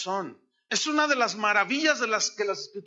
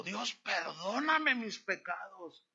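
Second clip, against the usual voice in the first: tearful prayer; 4 semitones higher, slower than usual. Retold or imitated. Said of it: "Y el hombre lloraba y lloraba".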